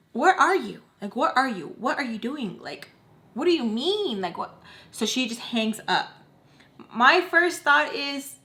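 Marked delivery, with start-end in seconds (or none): 0.1-4.6 exasperated questioning. Retold or imitated. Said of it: "And in my head".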